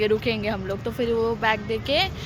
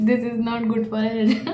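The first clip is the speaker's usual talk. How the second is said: laughing joke; much slower than usual. Shown as a demonstration. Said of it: "joking contrast with the salad".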